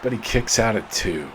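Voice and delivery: rising hype on the big move; wrestling commentator. Real, not acted. Live call of a big punch.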